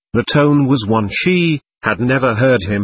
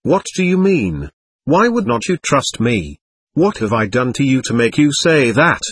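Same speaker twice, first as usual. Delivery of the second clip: shocked disbelief. Acted. Lucas, stunned by Veronica's distrust, asks in sudden shock. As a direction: pitch jumps up on the first question, then settles. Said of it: "took his breath away".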